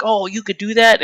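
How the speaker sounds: imitating a delighted fan; going nuts. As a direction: act like a fan who just found out. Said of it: "comic book people always go nuts".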